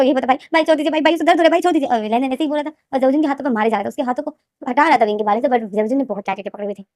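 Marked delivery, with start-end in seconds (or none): 0.3-1.9 higher, tearful begging to let go; desperate weepy pleading; crying plea. A narrator's reading. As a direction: plead through tears with a big brother. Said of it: "लेनदेन जो रोए जा रहा था".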